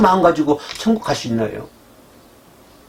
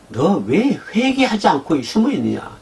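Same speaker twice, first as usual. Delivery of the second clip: God's rebuke; 5 semitones higher than usual. Acted. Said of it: "이 얘기 같아요".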